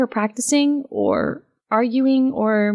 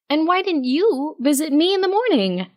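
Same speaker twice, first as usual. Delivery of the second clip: mock retort; 7 semitones higher than usual. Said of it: "I retorted".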